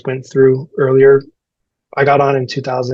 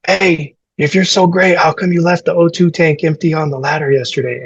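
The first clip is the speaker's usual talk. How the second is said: raised, higher-pitched confrontational quote; retold telling-off, pitched up but not full volume; mock yelling; 4 semitones higher than usual. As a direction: imitate a big guy chewing out the rookie. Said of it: "got me in the corner and just yelled".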